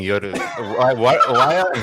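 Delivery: put-on Pakistani-accented IT tech, high and loud. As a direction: shout at Jay in a Pakistani accent. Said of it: "do a Pakistani I T tech".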